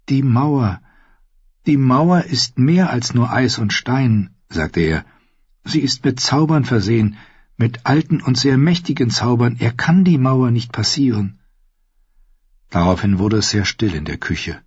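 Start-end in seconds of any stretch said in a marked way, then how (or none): 0.1-4.4 higher-pitched earnest character voice; hapless Sam explaining. Acted. 5.6-11.4 higher-pitched earnest character voice; hapless Sam explaining. Acted.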